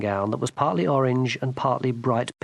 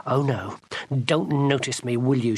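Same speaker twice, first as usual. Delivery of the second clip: sarcastic. Acted. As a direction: sneer after him. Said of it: "she said".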